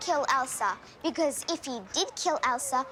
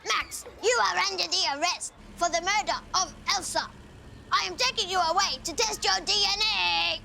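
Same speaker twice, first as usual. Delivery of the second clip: weird police voice; 4 semitones higher than usual. Retold or imitated. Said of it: "she had a weird voice".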